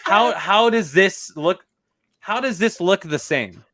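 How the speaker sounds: high, loud, slowed laughing disbelief; giggling, incredulous protest. Real, not acted. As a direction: laugh through the outrage, stretching it out. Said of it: "incredulous, laughing, slowed".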